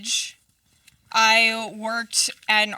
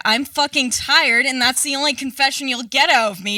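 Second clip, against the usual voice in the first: loud outburst; 3 semitones higher, 5 dB louder than usual. Acted. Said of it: "I said".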